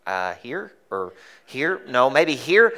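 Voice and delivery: hesitant, puzzled mock student; confused student. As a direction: play the lost kid at the blackboard. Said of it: "And I'm like".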